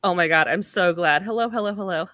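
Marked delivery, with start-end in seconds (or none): 1.2-2.1 put-on childlike Ergo. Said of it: "So I'll do Ergo".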